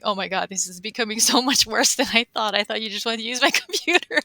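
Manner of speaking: imitating a panicked guy, laughing through it; mock freak-out. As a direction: play at freaking out, amused. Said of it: "freaking out".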